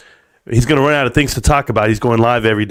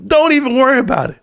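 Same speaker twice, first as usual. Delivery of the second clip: chuckling through it; teasing repeat through a laugh; laughing tease; 8 semitones higher than usual. Real, not acted. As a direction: laugh it off smugly.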